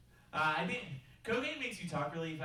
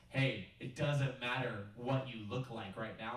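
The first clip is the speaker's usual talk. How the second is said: slow, calm yoga-teacher reassurance; soothing instructor; 2 semitones lower, slower than usual. Retold or imitated. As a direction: soothe the class, unhurried.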